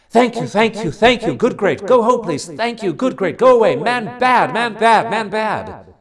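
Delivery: high, loud, strange creature voice; a small beast crying out a warning; animal voice. A narrator's reading. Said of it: "an animal or bird was warning me".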